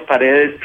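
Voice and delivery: "Paredes" said as pah-REH-des, stress on the middle syllable; correcting a name. Shown as a demonstration. Guest patiently corrects the host's try at his surname "Paredes". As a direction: say "Paredes" slowly and clearly, the way the name is meant to sound. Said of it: "Well, that was really close".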